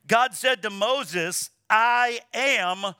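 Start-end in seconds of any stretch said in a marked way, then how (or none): 1.7-2.9 slow solemn quote. Shown as a demonstration. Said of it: "Can you say that with me?".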